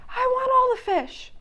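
high, demanding cartoon voice; greedy penguin. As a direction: grab all the fish. Greedy Polly voiced in story.

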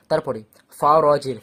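ফা র জের called out loud letter by letter; loud letter recital; loud spelling out. Shown as a demonstration. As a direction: spell ফা র জের loudly for the class. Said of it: "ফের জের আসে".

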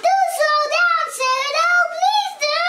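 high, pleading call; anxious high-pitched shout; Noddy. A narrator's reading. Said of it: "shouted Noddy".

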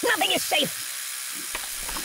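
slow hushed whisper. Acted. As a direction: breathe it out slowly. Same line slowed and whispered.

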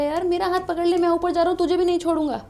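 a molecule calling to its partner; water molecule speaking. Pretend. Teacher voicing a water molecule pulling its neighbour up. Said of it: "कहेगा".

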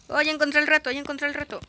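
loud, high burst of joy; excited. Real, not acted. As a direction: shout it out, thrilled. Found the challenge.

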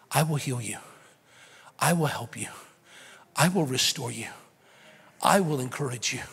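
gentle voice of Jesus, growing fuller; tender invitation. Retold or imitated.

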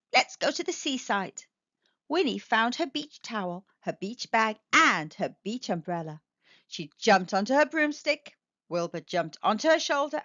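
lively storybook reading voice; a picture book read aloud; story narration. Acted. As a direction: read it to children, bright and animated.

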